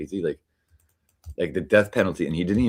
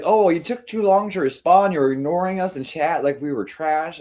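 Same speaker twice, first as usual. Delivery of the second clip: mocking Katie; 8 semitones higher, 3 dB louder than usual. Streamer imitating Katie's grievance about being ignored. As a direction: drag it out like a sulky complaint. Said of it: "'cause Katie's like".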